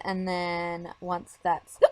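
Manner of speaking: speaking through hiccups; hiccuping mid-sentence. Real, not acted. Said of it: "sorry, I have the hiccups".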